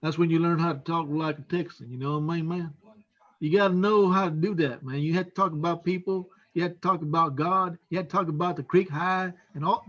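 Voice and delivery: lightly demonstrated Texan drawl; West Texas country drawl. Shown as a demonstration. Officer shows how West Texans talk, light country drawl. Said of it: "what they call a country drawl".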